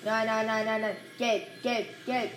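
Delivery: loud frantic repeated no; panicked gamer under attack. Real, not acted. Panicking in a fight.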